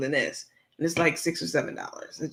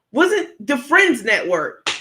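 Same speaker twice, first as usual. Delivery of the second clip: laughing; 5 semitones higher, 6 dB louder than usual. Real, not acted. Laughing while trying to remember.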